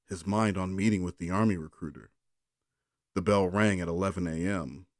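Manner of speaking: steady bedtime reading voice; story narration. Acted. Brother reading a bedtime story to his sister. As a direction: read it evenly to lull her.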